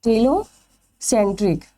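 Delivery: टीलोसेंट्रिक said again slowly, syllable by syllable; slow repeat. Shown as a demonstration. Teacher repeats the term slowly for the class to note down. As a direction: drag out टीलोसेंट्रिक so students can write it. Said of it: "इसे क्या बोलते हैं?".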